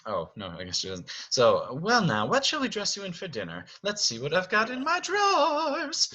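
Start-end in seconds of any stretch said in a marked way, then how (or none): 1.8-6.1 wardrobe diva. Acted. Wardrobe's line acted out.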